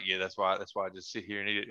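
imitating a deep-voiced roommate, low; lightly put-on low, understated reply; Richard's deep voice. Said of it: "You know how deep his voice is".

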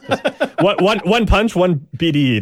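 high-pitched, amused repetition; cracking up. Real, not acted. Host jokes about the one-punch knockout, cracking up in a high voice. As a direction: squeak it out while trying not to laugh. Cracks up at his own innuendo.

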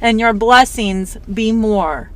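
slow, gentle recited blessing; reciting a blessing. Shown as a demonstration. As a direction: recite it like a toast, slowly. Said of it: "the old Irish blessing".

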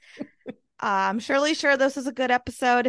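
a little tipsy, loose and giggly. Real, not acted. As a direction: talk like you've had a couple drinks. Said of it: "I'm a little tipsy right now".

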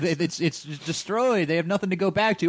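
high-pitched redneck rant; mock redneck. Ranting as Lex about the destroyed city, mock redneck. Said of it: "I made him a redneck".

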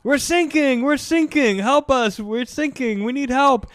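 高く大きな声で大げさに慌てて; 沈みかけの船員を芝居がかって; hammed-up panic. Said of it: "And he's like".

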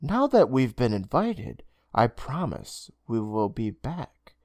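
a hint of a slow, soft-spoken stranger; reassuring Mr Braun. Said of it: "Mister Braun assured him".

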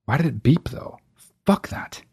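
hushed, breathy whisper to himself. Real, not acted. Muttering to himself in a whisper while the soundboard plays. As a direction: mutter it under the breath, barely voiced.

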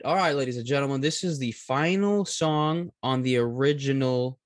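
emcee introducing the next track; announcer voice. Acted. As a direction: address the crowd like a host. Announcing like a host.

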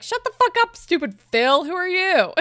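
high, loud mock yell at Phil; loud, jokey fake rage; mock angry outburst. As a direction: snap at him like you're fed up. Venting at Phil in retelling.

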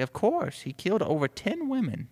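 high-pitched woman's voice; female assistant. Acted. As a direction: exclaim as the chief's assistant. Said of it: "She's like".

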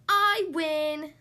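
high, loud victory cry; gloating little winner; triumphant crowing. A narrator's reading. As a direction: crow it out in triumph. Thistle crows after winning contest.

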